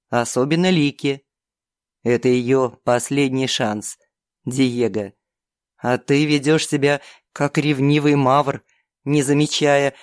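low, scolding demon voice; demon count lecturing. Acted. Count's long lecture to Diego. (низкий грозный голос демона)

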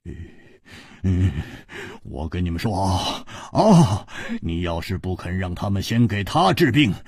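stubborn, rising to loud outbursts. Acted. Hu Tiehua refuses the antidote unless his friend is treated, loud. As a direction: refuse loudly like a stubborn brother. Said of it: "胡铁花大声说".

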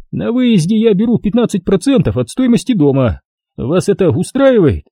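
high, smug official voice; pompous bureaucrat talking down; notary's voice. A narrator's reading. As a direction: play the fat notary, condescending and self-important.

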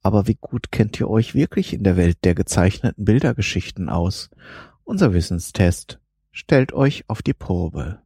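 bored reading. Acted. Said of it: "so gelangweilt vorlesen".

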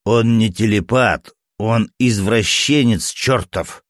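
yelling. Acted. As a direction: shout out the insult, slowing down. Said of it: "заорал скрипач". (громко и медленно орёт)

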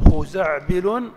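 خزعبل stretched slowly and loud, in one run; drawn-out intonation demo. Shown as a demonstration. Teacher showing that the intonation differs, drawn out. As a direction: draw خزعبل out so every sound is heard. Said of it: "ليست نفس التنغيم".

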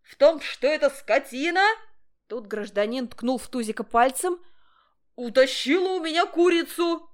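high, loud complaint; outraged neighbor; indignant accusation. A narrator's reading. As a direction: accuse the dog loudly. Angry accusation over stolen chicken.

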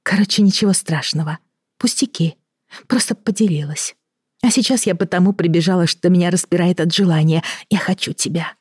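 chirpy forced lightness; a hint of a woman playing a role. Elena acting a role.

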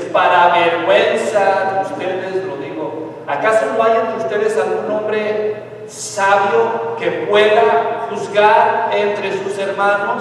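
slow, weighty reading of Paul's rebuke. Retold or imitated. Preacher reads Paul's rebuke to the church, slow and reproachful. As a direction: lay each word down slowly and reproachfully. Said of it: "le dice".

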